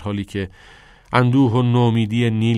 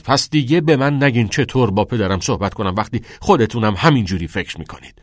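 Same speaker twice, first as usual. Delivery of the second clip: louder, cutting him off sharply; snapping; 3 semitones higher, 5 dB louder than usual. Acted. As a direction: bite his head off mid-sentence. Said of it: "نیل تشر زنان حرفش را قطع کرد". (با تشر و صدای بلند)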